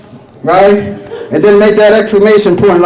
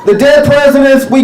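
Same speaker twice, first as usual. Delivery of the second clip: laughing; 8 semitones higher than usual. Real, not acted. Laughing at own joke.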